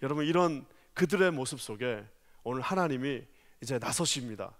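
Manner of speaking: usual speaking voice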